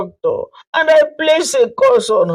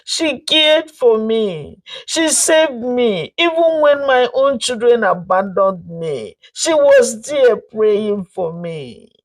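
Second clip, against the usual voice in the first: tearful confession; 5 semitones higher than usual. Acted. Mother-in-law confessing to the family, tearful plea. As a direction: beg forgiveness through tears. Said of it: "Tears poured down her face".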